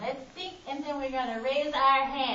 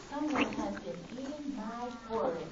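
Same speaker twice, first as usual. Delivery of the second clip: middle-sized voice; 3 semitones lower, 5 dB quieter than usual. Acted. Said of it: "in her middle-sized voice".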